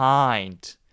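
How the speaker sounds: relaxed first syllable, weight on hind of behind. English pronunciation lesson with relaxed first part: stress on hind in behind. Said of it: "힘 빼고 behind. 왜냐하면 강세가 뒤편에 있거든요".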